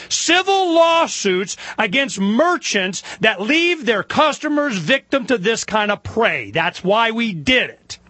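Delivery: emphatic, rising build-up; impassioned. Real, not acted. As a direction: drive each point home with force. Impassioned build-up explaining the lawsuit's purpose.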